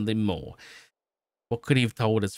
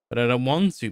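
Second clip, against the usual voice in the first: whined; 3 semitones higher than usual. Acted. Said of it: "Matt whined".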